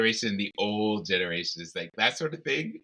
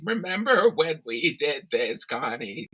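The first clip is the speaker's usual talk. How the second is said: put-on old person's voice; 6 semitones higher, slower than usual. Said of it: "That's my old person's voice".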